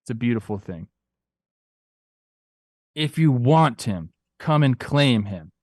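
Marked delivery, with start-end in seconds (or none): 2.9-5.5 slow, deliberate dare; slow taunting quote. Shown as a demonstration. Quoting Arwen's dare to the Nazgul, slow taunt. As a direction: lean into the challenge slowly. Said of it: "repeats the iconic line".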